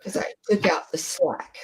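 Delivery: soft unvoiced whisper. Real, not acted. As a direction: murmur it under your breath. Whispering while concentrating.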